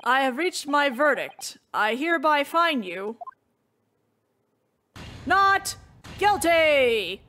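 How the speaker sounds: lightly voiced judge, slow dramatic pause before not; a hint of courtroom gravity, drawing out the verdict; judge announcing verdict. Judge to defendant Ray, announcing the verdict with mild gravity.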